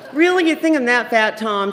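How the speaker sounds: loud, high, incredulous start, easing down; retold indignant questioning; offended challenge. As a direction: confront him in mock outrage. Acts her offended challenge to Tom.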